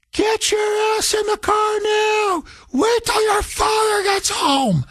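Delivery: high, slow furious mom shriek; mock screaming mother. Mother ordering her tall son into the car, high mock shriek.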